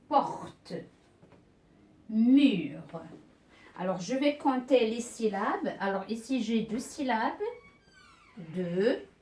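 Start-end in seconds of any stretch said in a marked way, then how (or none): 0.1-2.8 porte and mur each set apart, carefully articulated; isolated syllables. Shown as a demonstration. Teacher separating words into syllables, isolated and careful. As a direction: give porte and mur singly between long pauses. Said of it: "je vais séparer ces mots en syllabes".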